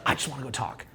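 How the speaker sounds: eager inner voice. Retold or imitated. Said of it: "You're just like".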